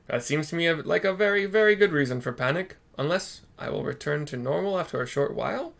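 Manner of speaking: pleading with the master; mock panic. Soroban still panicking.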